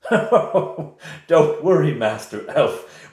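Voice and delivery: high, loud, slow oily reassurance; smooth Reeve. Acted. The Reeve calming the elf and guards, high and slow. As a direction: soothe the tense room with a slick smile.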